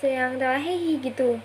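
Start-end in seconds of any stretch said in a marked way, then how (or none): 0.6-1.0 brief, higher-pitched mock laugh; small pretend "hehe"; imitated giggle. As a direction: imitate a friend's strange little laugh. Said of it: "Terus ketawanya kayak yang tertawa".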